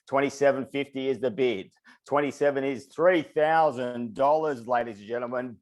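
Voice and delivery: rapid rhythmic auctioneer patter; auctioneer call. Acted. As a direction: keep the bids rolling like an auctioneer. Runs a live auction call.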